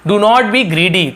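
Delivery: each word spaced out for learners; slow model sentence. Shown as a demonstration. Teacher slowly modelling a sentence for students. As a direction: read it very slowly so students catch it.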